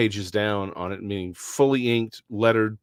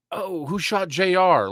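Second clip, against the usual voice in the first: higher, slow mock tourist asking about Dallas; imitating curious foreigners; 7 semitones higher, slower than usual. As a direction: draw it out like people quizzing a Texan. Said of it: "people were like".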